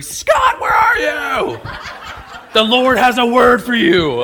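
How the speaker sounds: high, loud hammed-up shouting of a name; pretend screaming. Man in airport jokes he'd yell for Scott, loud shout. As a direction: bellow it like a street preacher calling out. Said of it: "start screaming".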